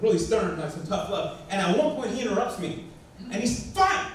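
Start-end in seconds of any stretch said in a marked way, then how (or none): 3.7-4.1 higher, louder curt reply; a sulky kid talking back; sulky snap. Retold or imitated. Son snaps back at his father, high and curt. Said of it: "I thought he was talking back".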